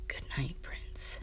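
soft unvoiced whisper. Kane to the sleeping prince, a soft whisper. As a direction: breathe it over the sleeping prince.

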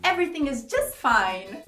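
mildly sarcastic reassurance. Shown as a demonstration. Teacher showing the phrase comes with sarcasm, sarcastic. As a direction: lean on "just fine" as if it's anything but. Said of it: "ela vem já com sarcasmo".

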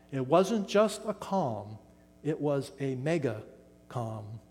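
mega stressed, calm dropping quiet. Shown as a demonstration. Preacher stressing mega to the congregation. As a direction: lean on the word mega, let calm fall away. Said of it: "There's that word mega again".

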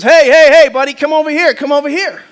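loud heys, then eager calling; hammed-up parrot call-out; screaming parrot. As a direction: holler across a pet store as a pushy parrot. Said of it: "this parrot is screaming in the background".

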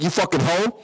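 mock-angry name-calling; telling her off. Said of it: "I told her off".

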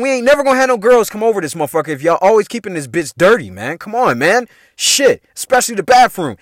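acted-out exasperated rant; retold scolding. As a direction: replay getting on the roommates' case. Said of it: "I would just be on motherfuckers".

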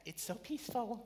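soft, high mock-serene voice; peaceful sigh. Worshippers reacting to a lovely song, softly serene. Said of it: "We sing that song and we're like".

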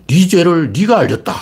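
lightly voiced stern judge; drawn-out 네가 in a mock stern judge voice; Joseon magistrate again. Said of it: "그냥".

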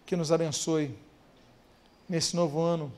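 soft, low prayer voice, unhurried; closing prayer. Acted. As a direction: lead the church gently into prayer. (voz baixa e suave de oração)

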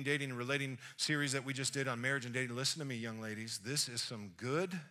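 normal talking voice

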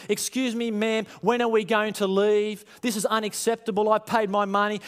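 lightly hammed-up whinge at the hostess; whingeing passenger. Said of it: "People start to whinge and complain".

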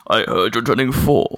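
a hint of a booming baritone. Birthday card in Jones's voice.

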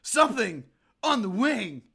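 hushed creepy storyteller; spooky dramatic line. Acted. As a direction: say it like a spooky TV teaser. Spoofing a Twilight Zone episode.

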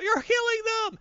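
high-pitched horrified cry; freaking out. Retold or imitated. Firestorm watching soldiers shoot people, high freaked-out cry. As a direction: cry out in acted horror, pitch way up. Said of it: "Firestorm freaks out".

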